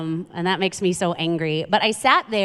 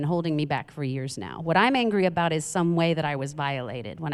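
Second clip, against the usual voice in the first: mock listener; 4 semitones lower than usual. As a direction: voice a hurting listener, low and sober. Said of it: "you're like".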